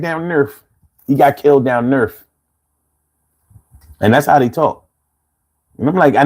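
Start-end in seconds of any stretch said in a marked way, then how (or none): 0.0-2.1 imitating Philly accent. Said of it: "they be like".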